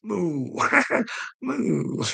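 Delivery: child's cute moo imitation; toddler moo. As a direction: do the baby's tiny moo.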